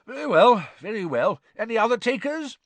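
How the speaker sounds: high, loud, jovial sportsman; hearty Bagman voice. Acted. Bagman bragging about the day to Arthur, jovial and excited. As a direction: boom with wild excitement.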